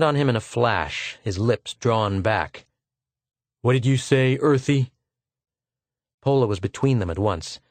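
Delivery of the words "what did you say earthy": menacing officer. Acted. Lieutenant confronting Arverdon, mild menace. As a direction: challenge him coldly.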